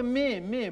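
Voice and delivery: short mock goat bleats. Shown as a demonstration. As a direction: imitate a goat's "meh". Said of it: "این داره میگه مه".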